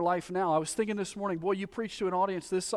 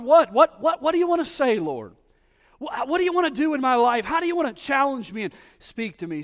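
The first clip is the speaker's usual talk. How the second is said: higher, louder urgent asking; eager pleading; 8 semitones higher, 9 dB louder than usual. Acted. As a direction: press God for an answer. Voicing an eager listening prayer.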